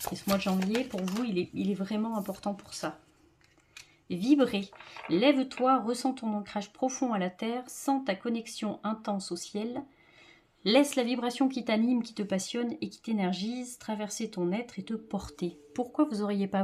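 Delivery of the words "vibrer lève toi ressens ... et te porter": reading a card message. Acted. Reads the card's message.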